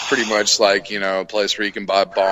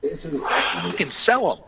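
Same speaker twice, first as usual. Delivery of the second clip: much higher, slow mock-friendly reassurance; 12 semitones higher, slower than usual. Worker baiting tweaker, high slow mock kindness. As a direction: lure him in sweetly. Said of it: "I was like".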